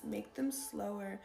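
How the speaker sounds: slow, unhurried coaching; slow advice. Shown as a demonstration. Coaching viewers to slow down, said slowly. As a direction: model the slowness as you say it. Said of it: "advice to speak slower".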